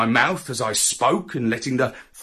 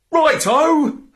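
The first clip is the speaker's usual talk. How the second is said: higher, louder cheery righto; cheerful; 12 semitones higher, 6 dB louder than usual. Acted. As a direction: chirp it happily. Dog agrees cheerfully.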